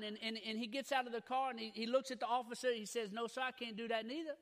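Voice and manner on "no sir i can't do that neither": lightly acted Louisiana accent, dropped r's. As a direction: joke refusal with a touch of Louisiana accent. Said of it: "I'll throw a little accent in for you".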